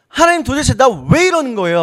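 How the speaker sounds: mild mock remonstrance; confronting God. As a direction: demand an explanation from God, moderately heated. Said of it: "하고 따지는 게 차라리 나아요".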